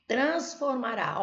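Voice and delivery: Transformará drawn out, stress on the last syllable; stressed syllable shown. Shown as a demonstration. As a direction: stretch Transformará slowly, leaning on -rá. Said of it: "essa aqui é o quê".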